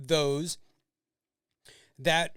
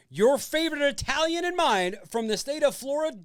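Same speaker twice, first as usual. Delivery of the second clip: ringmaster; 6 semitones higher, 4 dB louder than usual. Acted. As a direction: draw it out like a big arena intro. Host introducing guest like announcer.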